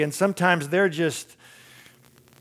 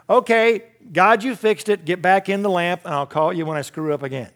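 mock dismissive; 3 semitones higher than usual. Mock dismissing God to lamp.

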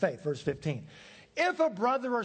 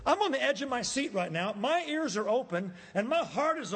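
eager; 5 semitones higher than usual. Shown as a demonstration. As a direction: lean in with excitement.

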